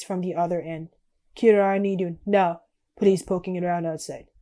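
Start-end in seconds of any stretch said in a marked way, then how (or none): 1.4-4.3 loud mock Russian voice on the radio; fake Russian accent. Russian calling Kira over the radio, in a fake Russian accent. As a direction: bark it in a put-on Russian accent.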